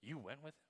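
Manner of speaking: soft question pointed at "You"; stress on YOU. Shown as a demonstration. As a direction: lightly lean on "You", let the rest fall softly. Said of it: "same words with different emphasis".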